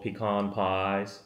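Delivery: "pecan" said pih-KAHN; slow "pecan pies" with a long AH in pecan; Texas pronunciation. Shown as a demonstration. Showing what was learned in Texas, "pecan" as pih-KAHN. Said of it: "I learned how to pronounce pecan pie".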